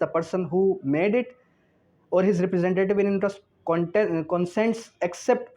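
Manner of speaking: slow, measured reading of the law text; slow statute dictation. Shown as a demonstration. Teacher dictating the article to law students, slow and measured. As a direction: read each legal phrase slowly for students to note down.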